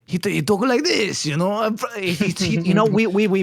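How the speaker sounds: high-pitched imitation of an older coworker; sweet older coworker impression. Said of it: "that was, like, the way that he spoke to us".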